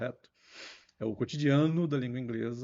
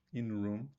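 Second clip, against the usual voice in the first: slow, careful English model phrase; slower than usual. Shown as a demonstration. Teacher spells it out slowly for students. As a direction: say it slowly for beginners. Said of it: "na sala dois".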